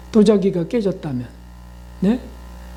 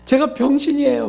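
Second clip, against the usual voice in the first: imitating a fretful self-scolder, higher; fretting aloud at oneself, pitched up; self-scolding grumble; 5 semitones higher than usual. Preacher mimics a person scolding themselves, higher fretful grumble. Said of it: "막 이렇게 그런다고요".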